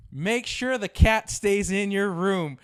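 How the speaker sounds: loud, slow, high-pitched order; imitating mom's emphatic command; urgent retold warning. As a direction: drop the warning heavily, drawn out.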